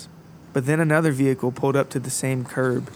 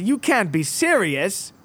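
put-on old man voice; 6 semitones higher, slower than usual. Percy refusing his friend.

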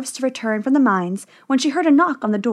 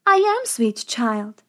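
put-on old woman; slower than usual. A narrator's reading. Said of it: "said the woman".

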